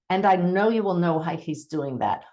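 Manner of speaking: assured, declarative delivery; stating with confidence. Shown as a demonstration. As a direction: state it as something you truly know. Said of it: "when you state with confidence".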